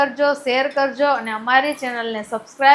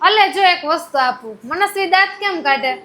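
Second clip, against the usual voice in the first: lilting, high parent voice; 4 semitones higher than usual. Real, not acted. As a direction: tempt a little one to perform. Coaxing toddler with promise of a treat.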